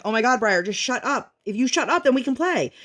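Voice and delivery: worn-thin mom bargaining; exasperated parent. Retold or imitated. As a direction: retell a fed-up mom at her limit. Mom snapping at screaming child.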